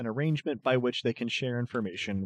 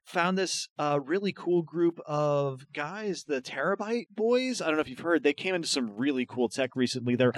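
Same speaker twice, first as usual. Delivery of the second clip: higher, quick, eager chatter; babbling student; 5 semitones higher, faster than usual. Acted. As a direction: ramble on like a nervous fan. GM voicing babbling Jorma.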